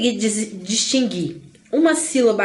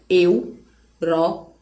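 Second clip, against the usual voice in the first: EUROPA in three separate beats, eu, ro, pa; slow Europa right down with gaps between eu, ro and pa; split into syllables; 5 semitones lower, much slower than usual. Shown as a demonstration. Teacher showing the mouth opens three times, Europa split slowly. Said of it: "Três vezes eu abro a boca".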